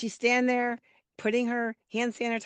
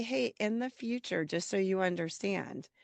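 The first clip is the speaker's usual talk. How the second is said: gentle; 7 dB quieter than usual. Retold or imitated. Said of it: "going to happen nicely".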